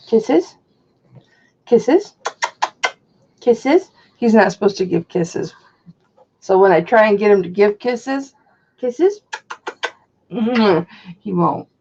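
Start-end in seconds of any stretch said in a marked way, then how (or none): 0.1-9.2 talking to a dog. Real, not acted. Asking dog for kisses.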